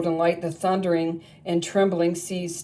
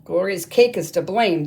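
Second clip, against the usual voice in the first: eager cry; 5 dB louder than usual. Acted. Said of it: "they cried".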